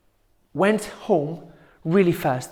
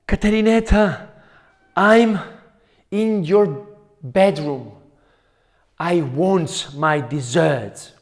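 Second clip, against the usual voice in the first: louder, looming aunt calling out; menacing shout; 6 dB louder than usual. Acted. Aunt bursting into the bedroom to frighten Caterineta, loud and menacing. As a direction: boom it out like the monster is in the room.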